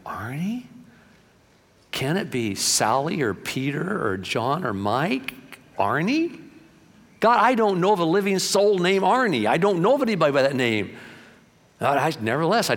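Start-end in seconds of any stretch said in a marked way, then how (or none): 0.0-11.0 mildly incredulous, questioning the name; baffled disbelief. Retold or imitated. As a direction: act out puzzled protest, rising on the name. Baffled reply to God's message.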